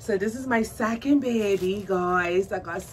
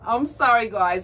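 breathless apology; 7 dB louder than usual. Real, not acted. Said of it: "my throat's starting to hurt".

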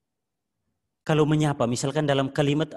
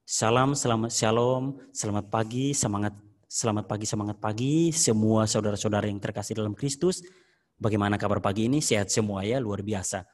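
smiling, lower, friendly opening greeting; gentle friendly greeting; 4 semitones lower than usual. Shown as a demonstration. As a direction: greet them kindly with a smile in the voice. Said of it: "salam berarti halus, senyum, ramah".

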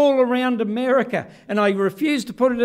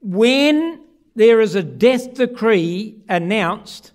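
slow preaching emphasis; 7 dB louder, much slower than usual. Acted. Preacher announcing the death decree.

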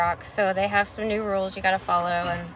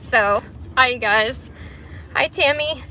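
winded after a long walk; catching breath between words. Real, not acted. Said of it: "Sorry, I'm so out of breath".

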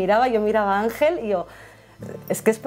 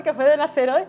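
higher, anxious repeat of the question; imitating nervous husband; 6 semitones higher than usual. Wife imitating her nervous husband before the emergency C-section, anxious. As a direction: mimic the worried husband's rising panic. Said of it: "empezó a ponerse nervioso".

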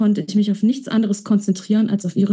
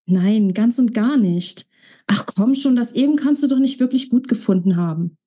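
lightly voiced young woman, laughing it off; 2 semitones higher than usual. Sophia laughs off Alex's praise, bashful. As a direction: brush off the compliment, a bit faster at the end.

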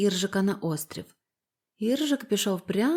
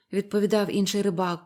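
plain reading voice

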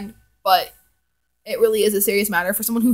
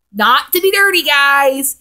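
defensive aside; 4 semitones higher, 7 dB louder, slower than usual. Real, not acted.

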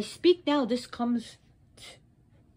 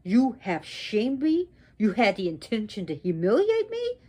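angry reproach. Acted. Wronged goddess confronts her husband, angry reproach.

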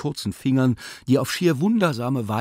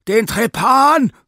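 much higher, louder and slow shout; scream; 13 semitones higher, 10 dB louder, slower than usual. Acted. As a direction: yell for the knife. Surgeon yelling for instruments.

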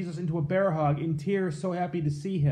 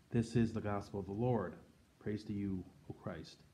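gospel reading. Acted. Priest reading the gospel to the parish, measured and formal. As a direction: proclaim the gospel clearly to the congregation.

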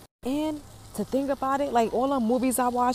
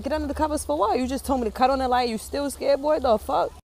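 exasperated; 4 semitones higher than usual. Retold or imitated. Mom exasperated at son.

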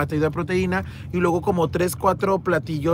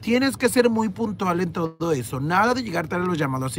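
gentle scolding. Retold or imitated. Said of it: "Me dijo".

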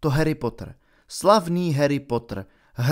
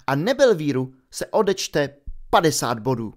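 a strict teacher handing down punishment; clipped reproach, then the verdict; stern professor. Acted. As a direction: McGonagall punishing the four pupils and taking points. McGonagall hands out punishment.

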